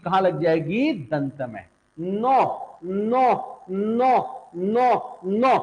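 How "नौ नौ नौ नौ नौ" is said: नौ with the tongue touching the teeth on the N; dental N. Shown as a demonstration. Teacher shows students the pure Sanskrit नौ, N made on the teeth. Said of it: "जीभ को बेटा हम कहाँ लगाएंगे? दंत में लगा देंगे।".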